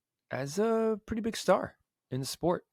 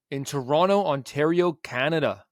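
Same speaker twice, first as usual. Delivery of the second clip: put-on loud hammy Canadian accent, louder; overdone Canadian accent for the city names; bad Canadian accent; 6 dB louder than usual. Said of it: "That was a really bad Canadian accent".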